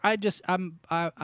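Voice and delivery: talking through a mouthful of food; words muffled round a bite; mouth full. Real, not acted. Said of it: "My mouth is full".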